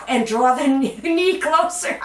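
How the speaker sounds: real giggle caught mid-instruction; laughing. Real, not acted. Fitness instructor finding tight hamstrings mid-stretch, laughing as they speak. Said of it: "I'm laughing because I have really tight hamstrings".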